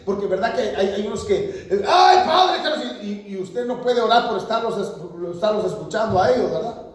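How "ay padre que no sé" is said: mock whiny churchgoer. Mock complaining congregant.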